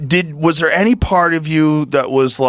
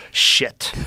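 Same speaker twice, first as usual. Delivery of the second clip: hushed. Retold or imitated. Toddler looking at the helmet, swearing under her breath. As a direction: drop it to a near-whisper like a toddler. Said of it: "and she goes".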